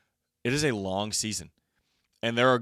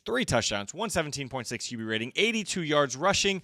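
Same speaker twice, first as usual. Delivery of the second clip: stats reeled off in one breath; rattled off breathlessly. Real, not acted. Host recaps quarterback's stats to co-host, rattled off breathlessly. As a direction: rattle through the list till the breath runs out. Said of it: "I'm out of breath".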